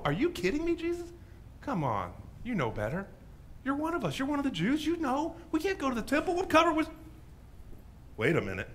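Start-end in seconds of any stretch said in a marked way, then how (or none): 0.0-6.9 high, disbelieving protest to Jesus; a shocked Jewish leper, voice climbing high; incredulous objection. Acted.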